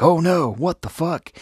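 high-pitched comic alarm at normal pace; hammed-up shock, pitch leaping right up; mock horrified panic. Acted horror at the kiss.

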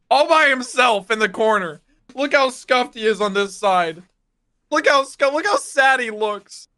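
high, slow mock-pitying coo; high cooing pity over a pumpkin. Real, not acted.

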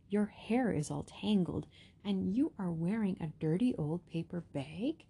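snooty prince. Acted. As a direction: sneer down at her like a spoiled prince. Prince Ronald voiced in story.

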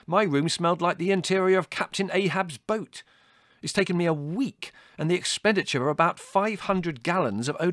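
high, loud comic outrage; withering tirade. A narrator's reading. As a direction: rant grandly about the damage. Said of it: "said Larry witheringly".

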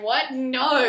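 high, loud incredulous "What? No."; a sharp, indignant no; shocked what. Retold or imitated. Wife's shocked reaction retold.

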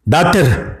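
high anguished cry of the word. Acted. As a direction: break into a wail on doctor. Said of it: "పెద్దగా ఏడవటం మొదలుపెట్టాం". (ఏడుస్తూ doctor అని అరవడం)

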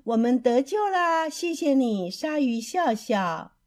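happy cheer, starting high and loud. Acted. Freed fish thanking the shark, cheering. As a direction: celebrate being rescued. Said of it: "鱼儿们欢呼起来".

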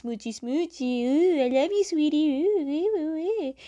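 high, swooping kissy-kissy coo; mock lovey-dovey. Sokka mimics Katara and Aang being oogie, mock lovey-dovey. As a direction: tease the sweethearts in a silly high voice.

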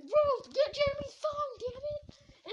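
high, loud frantic order; urgent shout. Retold or imitated. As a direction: holler the command across to a friend. Acted urgent order to friend.

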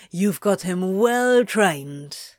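smug drawl, slow; snorting. Acted. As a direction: snort it out smugly. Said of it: "Crowley snorted".

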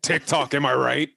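put-on goofy show-off kid voice; first grader. First grader shows off a dance, put-on kid voice. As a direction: play a schoolkid begging to be watched. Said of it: "that's a first grader".

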